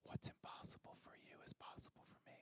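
very soft, breath-only whisper; wonder-filled whisper. Acted. God's promise to a believer, whispered in wonder. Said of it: "I become wonderful because I hear the promises".

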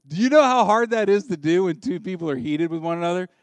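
loud, high preaching at full force; emphatic. Real, not acted. Pastor asks the congregation how hard stopping is, loud emphatic. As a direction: hammer the question home to the room.

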